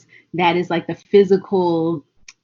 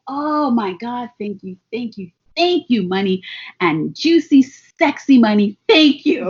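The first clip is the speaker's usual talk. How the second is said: gushing thanks. Retold or imitated. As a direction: thank money like a lover. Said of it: "It's like".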